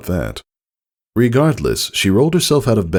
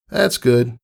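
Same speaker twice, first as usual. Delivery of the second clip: high, trailing pony voice; awkward Rainbow Dash; 7 semitones higher than usual. A narrator's reading. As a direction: at a loss for words.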